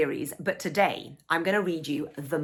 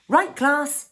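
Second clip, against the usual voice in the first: calling the class to attention, higher and louder; teacher calling out; 9 semitones higher, 5 dB louder than usual. Acted. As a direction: call the class to order. Ballet teacher calls the class.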